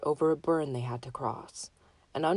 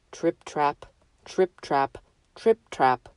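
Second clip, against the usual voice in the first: heavy stomping steps; 5 dB louder, slower than usual. Acted. Heavy goat crossing bridge.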